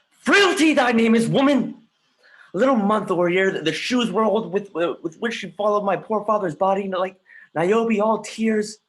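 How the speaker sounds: high, loud anguished yell; shouting his rage at his mother's remarriage; furious shout. Acted. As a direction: hurl it out at full voice in bitter rage. Hamlet rails at his mother's frailty.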